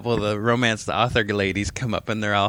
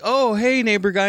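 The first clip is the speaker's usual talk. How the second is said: flirty women; 10 semitones higher, 3 dB louder than usual. Retold or imitated. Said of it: "were like".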